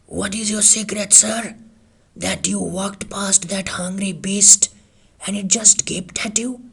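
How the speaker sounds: hushed, breathless whisper of a bewildered villager; astonished villager whispering his question; mumbled question. A narrator's reading. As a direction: mumble it out in awe, half whispered. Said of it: "he mumbled out his question".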